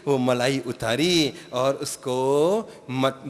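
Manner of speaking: ordinary talk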